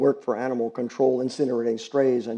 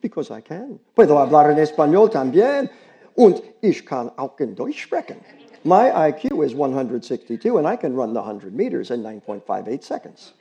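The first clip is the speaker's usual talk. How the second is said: put-on higher, louder bragging girl's voice; boastful girl; 3 semitones higher, 7 dB louder than usual. Girl bragging to the grown-ups, loud girlish boast. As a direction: show off every skill.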